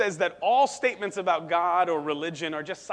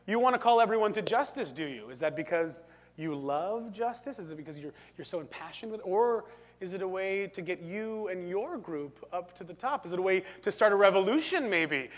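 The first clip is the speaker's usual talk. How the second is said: lightly voiced suspicious philosopher; Nietzsche. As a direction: probe their motives with a skeptical lilt, humming doubtfully. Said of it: "This is, this is Nietzsche".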